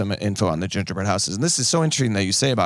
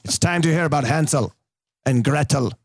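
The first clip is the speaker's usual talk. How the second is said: put-on storyteller to kids; 3 semitones higher than usual. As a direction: tell it like a kindergarten teacher.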